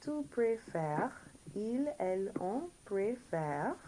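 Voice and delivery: slow, evenly spaced French drill; careful model with room to repeat; all together now. Shown as a demonstration. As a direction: lead the class word by word. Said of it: "all together now".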